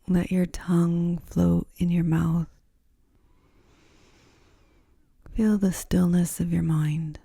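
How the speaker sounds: unhurried, soothing guidance into rest; guided yoga nidra. Acted. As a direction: ease the listener down gently, phrase by phrase.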